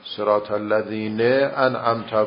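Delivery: صراط الذین انعمت drawn out slowly; slow demo. Shown as a demonstration. Teacher demonstrating the kasra case. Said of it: "اگه قبلش کسره بود".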